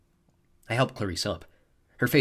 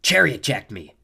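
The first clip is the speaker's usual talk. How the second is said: correcting; 2 semitones higher, 7 dB louder, slower than usual. A narrator's reading. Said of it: "she corrected".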